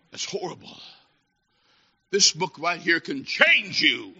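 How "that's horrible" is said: hushed, voiceless emphasis; grave whisper. Real, not acted. Preacher repeats his verdict to the congregation, in a grave whisper.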